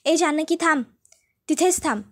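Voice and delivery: scheming daughter-in-law ordering Janaki to stay back; bossy stop order. Acted.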